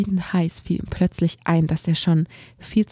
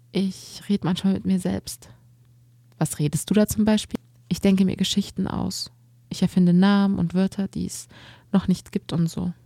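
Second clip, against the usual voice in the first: lightly voiced shy boy; 3 semitones higher than usual. Narrator voices shy boy Bastian.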